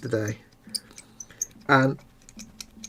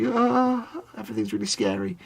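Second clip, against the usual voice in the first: put-on neurotic mummy's boy; 8 semitones higher, 7 dB quieter than usual. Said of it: "a bit neurotic".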